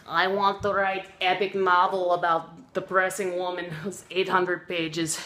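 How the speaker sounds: put-on light Russian accent, slowing on the last words; a hint of a Russian accent. Tolstoy telling his friend his plan, in a light Russian accent. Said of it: "speak in English with a Russian accent".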